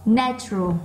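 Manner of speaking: NA in "natural" picked out; stressed first syllable. Shown as a demonstration. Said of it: "nó to hơn những âm còn lại". (nhấn mạnh âm một của "natural")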